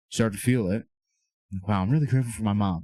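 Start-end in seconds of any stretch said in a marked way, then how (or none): 1.7-2.8 a quick, genuine "Wow, I'm really grateful for my mom"; sincere, moved realisation; heartfelt gratitude. Shown as a demonstration. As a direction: let the thanks rush out, actually feeling it. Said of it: "You start feeling it".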